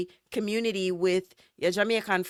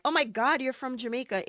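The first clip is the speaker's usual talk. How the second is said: mock-amazed, voice jumping high; put-on excited surprise; gushing tourist reaction; 7 semitones higher than usual. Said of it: "it's not like".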